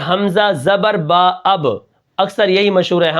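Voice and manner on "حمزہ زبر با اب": 1 slow spelling. Shown as a demonstration. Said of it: "ہم کیا کریں گے".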